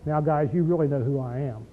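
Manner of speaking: a timid, quiet take; soft mild version. Shown as a demonstration. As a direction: say it meekly, the way he did not. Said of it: "He didn't say".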